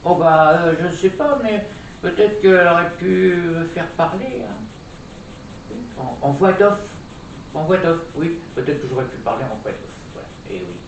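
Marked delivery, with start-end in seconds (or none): 0.1-8.4 puppet voice. Acted. Puppet Julie suggesting a voice-over act, high doll voice. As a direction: speak as the little puppet.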